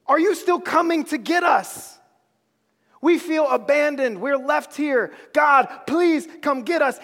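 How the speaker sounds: desperate plea. Acted. People begging God for a Savior.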